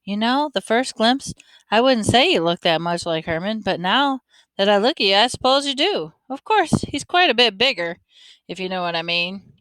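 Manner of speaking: a hint of a folksy old man, amused; lightly voiced older man. Older man looks the boy over, lightly voiced, amused.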